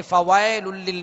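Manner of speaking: "फवैलुल लिल" with a flat e, as fawael; "फवैलुल लिल" without the clear y glide; wrong open vowel. Shown as a demonstration. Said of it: "नहीं पढ़ेंगे".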